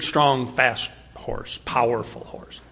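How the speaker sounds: whispered low and soft; hushed whisper. Acted. Preacher describing the powerful horse, hushed whisper.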